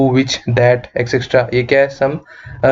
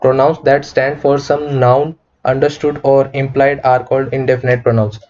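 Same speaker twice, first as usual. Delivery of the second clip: slow definition reading; much slower than usual. Acted. Teacher reads the definition slowly to students. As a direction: read the definition slowly, word by word.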